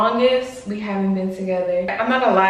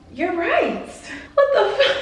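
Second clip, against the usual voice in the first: retold shocked realization; 11 semitones higher than usual. To herself after her husband's call, hammed-up shocked yelp. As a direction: jolt awake: wait, what am I doing.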